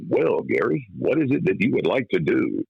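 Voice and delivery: a lightly voiced, unhurried radio man; station man. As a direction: play the older DJ sizing the kid up. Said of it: "he cleared his throat".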